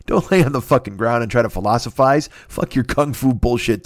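ordinary talk

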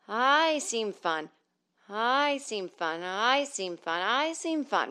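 very slow, drawn-out vocal exercise; sustained, over-careful practice phrase; voice-coach correct speech. Shown as a demonstration. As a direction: stretch every "I" and glide through the words. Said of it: "to talk like that".

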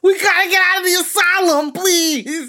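hammed-up wail, very high and loud; mock tearful pleading. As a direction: beg Mom desperately, playing a frightened child. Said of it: "literally in tears".

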